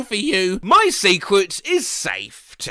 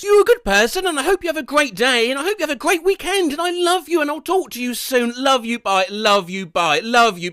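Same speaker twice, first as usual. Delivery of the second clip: higher, sugary lovey voice; lightly voiced doting partner; sweet phone message; 5 semitones higher than usual. Reading sweet autocomplete message.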